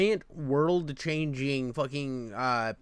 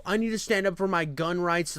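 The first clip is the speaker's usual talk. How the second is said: mock child; 4 semitones higher than usual. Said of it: "like a fucking five-year-old".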